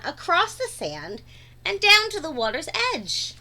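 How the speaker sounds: put-on lively read-aloud for young kids; animated storytime voice; story narration. A narrator's reading. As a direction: read the picture book to the class with wide-eyed energy. Reads picture book aloud.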